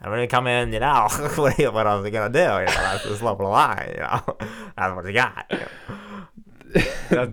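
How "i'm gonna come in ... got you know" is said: impression of professor. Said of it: "please do your impression".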